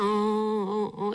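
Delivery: dry, drained "어" sounds without tears; tearless groaning. Retold or imitated. Worn out from weeping before the cross, dry groans. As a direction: groan out, too exhausted to cry. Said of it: "이렇게 소리만 내고 눈물도 안 나고".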